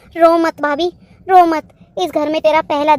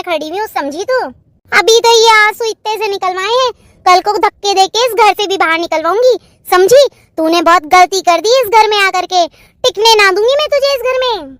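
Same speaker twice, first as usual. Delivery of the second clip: angry threat; 3 semitones higher than usual. Acted. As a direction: threaten her and mean it. Jethani threatens to throw her out. (गुस्से में ऊँची आवाज़ वाली धमकी)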